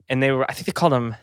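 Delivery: breathless, short of air; talking without taking a breath. Real, not acted. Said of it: "why you're so out of breath right now".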